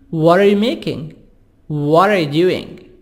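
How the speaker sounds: "What are" linked with a tapped T; soft-D T. Shown as a demonstration. Teacher drilling questions, "What are" said as "wadda". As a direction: soften the T of What into a D before are. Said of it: "T soft D".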